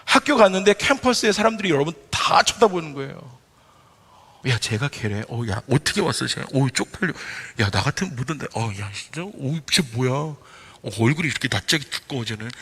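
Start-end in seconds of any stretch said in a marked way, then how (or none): 4.5-12.5 lower, softer mocking murmur; gossiping coworkers. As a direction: sneer behind someone's back. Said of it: "막 수근거리는 귀에 들리기". (낮고 작게 수군대며 비웃는 동료들)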